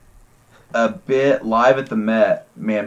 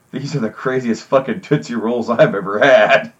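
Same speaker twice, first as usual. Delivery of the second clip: laughing. Retold or imitated. Quoting stoner while laughing.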